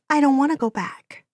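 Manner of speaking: put-on a girl begging to stay; young girl voice. A narrator's reading. Girl refusing to return.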